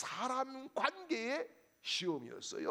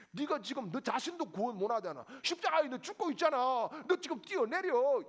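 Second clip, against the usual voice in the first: higher, louder, quicker jeer; mocking taunt; 4 semitones higher, 4 dB louder than usual. Pastor acts the crowd goading the dying Jesus, quick loud jeer. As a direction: jab at him to jump.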